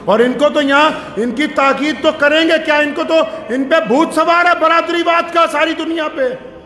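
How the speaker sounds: high sermon rebuke; scolding preaching. Real, not acted. Preacher scolding clan-obsessed families, scolding preaching. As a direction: scold them from the pulpit.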